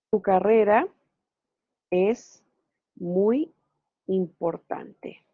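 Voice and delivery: "tu carrera es muy importante" said slowly, each word set apart; slow spaced example. Shown as a demonstration. Teacher giving a student an example, slow and spaced. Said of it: "Y yo digo".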